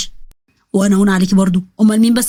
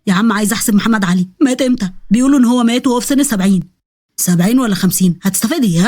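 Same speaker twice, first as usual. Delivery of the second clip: a hint of a lower boy's voice, pleading; lightly voiced schoolboy; 3 semitones lower than usual. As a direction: lightly drop into a panicky schoolboy. Boys bickering in exam.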